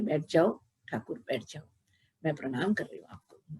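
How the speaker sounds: put-on a mother humbly bowing to her divine child, voice hushed; reverent greeting. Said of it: "प्रणाम करते हुए बोलती है". (श्रद्धा से, धीमे विनम्र स्वर में)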